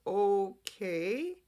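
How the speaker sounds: drawn-out okay, rising into doubt; skeptical okay. Retold or imitated. Host recalls reacting to bloodless bandages, skeptical. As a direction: stretch it into a doubtful question.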